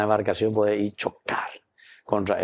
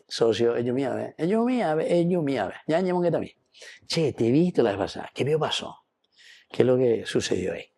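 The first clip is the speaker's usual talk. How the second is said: kindly priest; 2 semitones higher, faster than usual. Retold or imitated. Priest voicing Don Bosco to a boy.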